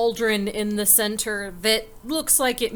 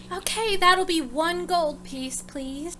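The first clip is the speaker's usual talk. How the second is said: lightly voiced, higher bartender; bartender character; 5 semitones higher than usual. Bartender asks customers to pay for the drink, lightly voiced. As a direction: politely ask for the coin in a slightly raised voice.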